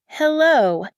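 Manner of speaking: loud, high-pitched hello; calling down line. A narrator's reading. Waiting caller to a silent listener, calling out loud and high. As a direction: call out to check someone is there.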